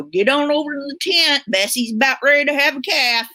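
lightly voiced livestock announcement; a hint of a folksy announcer calling folks over; mock fair announcer. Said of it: "they make an announcement and go".

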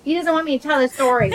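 speaking for the dog, playful and quick. Pretend. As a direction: voice what the dog is thinking. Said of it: "that was my dog voice".

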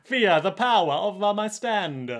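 a menacing boast, lightly overdone; villain voice. Acted. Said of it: "That was like".

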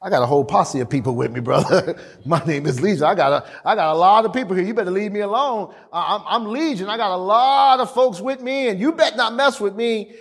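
comic swagger, lightly acted; intimidating. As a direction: bluff a threat, hurried and half-laughing. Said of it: "he's trying to intimidate Jesus".

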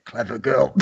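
soft mock whisper. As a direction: breathe it in his ear. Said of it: "Blade whispered in his ear".

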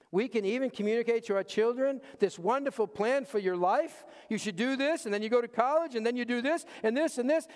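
hint of a pushy parent listing plans; mock parent lecturing. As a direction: rattle off orders like an eager parent. Parent voicing plans to children.

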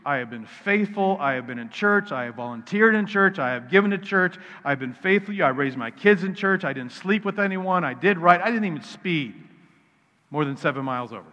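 put-on resentful older brother, building in volume. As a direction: list your good deeds with growing grievance. Older brother's complaint voiced in sermon.

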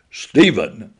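loud and commanding, calling him awake. Retold or imitated. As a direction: boom his name to wake him. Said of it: "I said in a loud, commanding voice".

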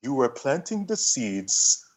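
slow, light imitation of a West African accent. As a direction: quote a Ghanaian friend with a mild West African accent. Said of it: "West African accent, he says".

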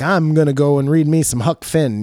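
put-on light Southern accent. Imagining a forty-year-old man choosing Huck Finn, lightly Southern accent. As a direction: slip into a mild Southern accent. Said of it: "I did a Southern accent there".

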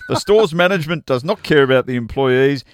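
hint of a tannoy announcer; mock store announcement, half laughing. Reading Beth's announcement aloud.

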